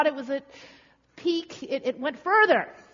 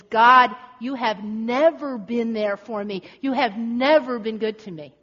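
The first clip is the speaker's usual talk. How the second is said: loud, slow reproach to God; bitter accusation; 6 dB louder than usual. Acted. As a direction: hit God hard, then draw out the grievance. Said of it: "he's actually speaking blasphemously to God".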